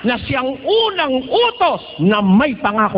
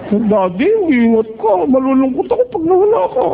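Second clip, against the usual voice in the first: mock-sweet wife seeing her husband off. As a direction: coo it like a doting wife. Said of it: "Eh, kung sweet ka".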